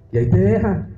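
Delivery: ordinary delivery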